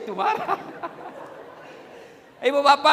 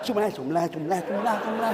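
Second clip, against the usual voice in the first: mock rushed zikir; 4 semitones lower, faster than usual. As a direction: gabble the words. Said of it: "Macam dia makan pisang goreng panas".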